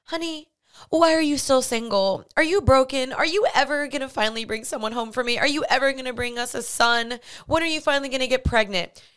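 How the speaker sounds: nosy relative, high and pleading; whiny grandma asking prying questions; nagging mom voice. Retold or imitated. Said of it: "they're like".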